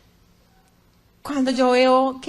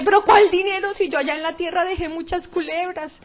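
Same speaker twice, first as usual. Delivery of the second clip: indignant shout; 4 semitones higher than usual. Retold or imitated. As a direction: protest in disbelief, yelling at first. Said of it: "yo grité".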